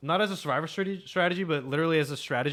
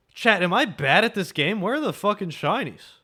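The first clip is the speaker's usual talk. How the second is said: raised, louder gripe to the audience; exasperated complaint; 4 semitones higher, 5 dB louder than usual. Real, not acted. Streamer to chat after an hour without a shiny, exasperated. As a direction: complain loudly, pitched up in frustration.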